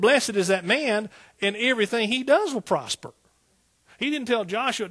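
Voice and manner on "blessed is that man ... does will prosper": full-force preaching. Acted. Preacher proclaiming God's promise, loud and high. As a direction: proclaim the promise to the back row.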